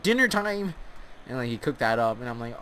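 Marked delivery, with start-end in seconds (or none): 0.0-0.7 high cheery call to the table; calling out dinner. Retold or imitated. Sensei calling the student to dinner, high cheery call. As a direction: announce dinner with a sing-song call. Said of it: "He's like".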